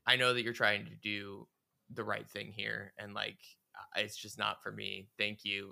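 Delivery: gentle, softening polite refusal; very kind. Retold or imitated. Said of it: "she was very kind about it".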